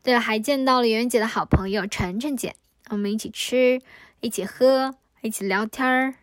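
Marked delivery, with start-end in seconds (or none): 5.2-6.1 聊天儿 ending in a curled Beijing r; erhua on 聊天儿. Shown as a demonstration. Adding Beijing erhua to 聊天儿 on purpose. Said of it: "又加了个儿化音".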